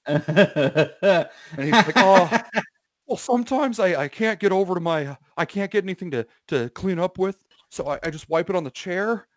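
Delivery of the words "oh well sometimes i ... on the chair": high cartoonish voice; Robbie. Storyteller mimicking his friend's excuse, high cartoonish voice. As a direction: imitate a cartoon-like friend, pitched up. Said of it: "he sounds like a cartoon character when he talks".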